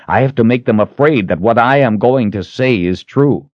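earnest, mildly heightened urgency; urgent hero. Acted. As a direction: argue the plan with pressing conviction. Richard urges Kalen.

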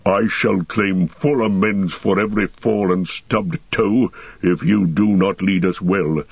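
dwarf voice, gruffly warning; dwarf Gimli grumbling. Acted. Blindfolded dwarf warning the elf guide, grumbling dwarf voice. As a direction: threaten amends as a sulking dwarf.

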